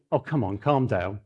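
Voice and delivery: soft, low, placating calm-down; soothing hush. Retold or imitated. Father hushing his arguing boys, soft and placating. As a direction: settle them down gently, hushed. Soothing angry sons mid-argument.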